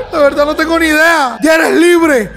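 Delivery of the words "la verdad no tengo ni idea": laughing admission he has no clue. Real, not acted. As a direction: talk through real laughter. Laughing at his own guessing.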